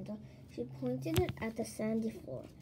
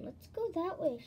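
calling; 6 semitones higher, 3 dB louder than usual. Acted. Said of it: "she called to Rachel".

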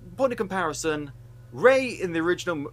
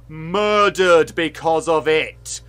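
loud, slow, hammered-out words; outraged emphasis; 9 dB louder, slower than usual. Real, not acted. Host on trans people facing real danger, outraged emphasis. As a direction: drive each word home forcefully.

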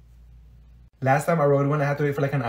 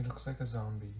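muttered aside; 8 semitones lower, 23 dB quieter than usual. Acted. Hidden aside about the boyfriend.

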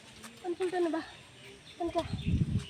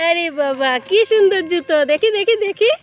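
excited admiring; 3 semitones higher, 6 dB louder than usual. Real, not acted. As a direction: gush over the little shoes. Admiring pet's shoes. (উচ্ছ্বসিত, জোরে আদর করে)

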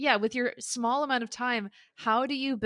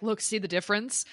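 mock Rochester voice; 7 dB louder than usual. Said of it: "deepened his voice when he went back into Rochester".

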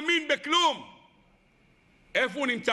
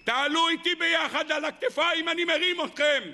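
God calling out; 3 semitones higher than usual. Acted. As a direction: cry out to them like a father from afar. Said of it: "והוא צועק לכולם".

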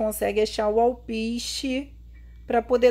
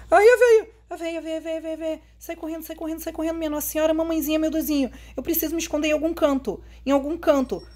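panicked; 4 semitones higher, faster than usual. Real, not acted. Granny spotted, fleeing.

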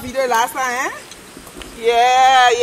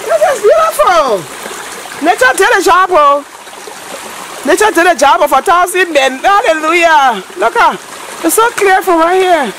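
excited praise; 3 semitones higher than usual. Real, not acted. Thanking Mother Nature for cleaning, excited praise. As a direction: celebrate like in church.

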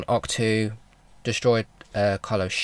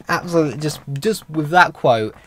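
higher and louder, still giggling; laughing through words; 6 semitones higher, 7 dB louder than usual. Real, not acted. Fan still laughing about Luke's jab, giggly higher voice. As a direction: talk while the laugh fades out.

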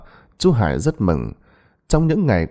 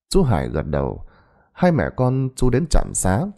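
plain reading voice

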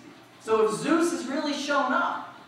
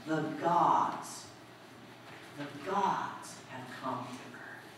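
hushed awe; 8 semitones lower, 10 dB quieter, slower than usual. Acted. Townsfolk awed by miracle.

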